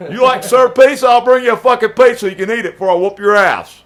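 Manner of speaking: loud, high, heated taunt; loud threat. Acted. Threatening Dan with a pizza before the fight, loud taunt. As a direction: throw the threat at him at full volume.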